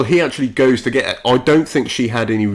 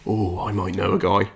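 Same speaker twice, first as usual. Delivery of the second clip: low, soft, cool-guy voice; Falcon; 4 semitones lower, 5 dB quieter than usual. Acted. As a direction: play it cool, dropped down and quiet. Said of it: "your coolest Falcon voice".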